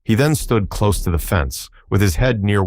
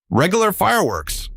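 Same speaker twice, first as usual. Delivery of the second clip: much higher, delighted exclamation; admiring; 13 semitones higher than usual. A narrator's reading. Scraps admiring the Woozy's sparks, high and delighted. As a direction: gasp it out in admiration. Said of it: "replied Scraps admiringly".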